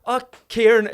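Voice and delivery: high, loud imitated woman's greeting; high-pitched put-on welcome; casting woman. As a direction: greet like an effusive casting director. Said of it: "the woman goes to me".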